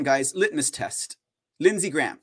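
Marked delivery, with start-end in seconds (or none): none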